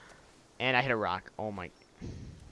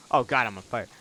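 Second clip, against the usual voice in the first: alarmed; 2 semitones lower, 7 dB louder than usual. Real, not acted. On fire in game.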